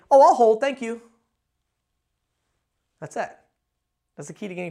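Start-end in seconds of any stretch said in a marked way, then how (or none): 0.1-1.0 bright, polite and firm; the caller cuts the receptionist off politely, nice but confident. Shown as a demonstration. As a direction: cut them off kindly but with confidence. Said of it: "very nicely but confidently".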